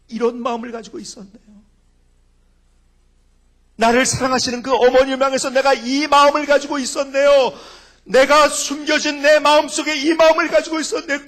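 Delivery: loud, high repentant prayer cry; tearful prayer. Retold or imitated. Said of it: "펑펑 울면서 회개했는지".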